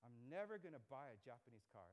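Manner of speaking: a hint of a stubborn father, "never" leaned on; lightly voiced dad refusing flatly; imitating dad. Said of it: "my dad, he would always say".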